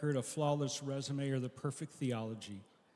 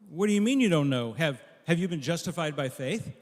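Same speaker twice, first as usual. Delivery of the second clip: louder, raised pitch, disbelieving angel; incredulous angel; 3 semitones higher, 7 dB louder than usual. Acted. Angel demanding answers from the thief, louder and incredulous. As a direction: angel can't believe the answer, pushes harder.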